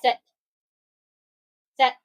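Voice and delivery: sharp dog command; firm command. Real, not acted. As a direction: order the dog to sit.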